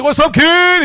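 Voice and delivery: high, loud Black American greeting inflection; hammed-up, high adopted Black American inflection; imitated slangy inflection. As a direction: retell your own put-on Black American greeting loudly. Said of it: "I was annoyed by it".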